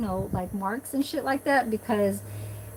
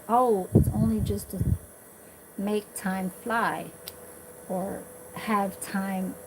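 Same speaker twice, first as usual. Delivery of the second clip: Filipino broken English; 3 dB quieter, slower than usual. Retold or imitated. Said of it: "He said it kinda like in an accent".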